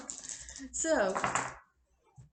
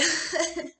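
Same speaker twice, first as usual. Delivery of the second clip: laughing; 8 semitones higher, 5 dB louder than usual. Real, not acted. Laughs at own story.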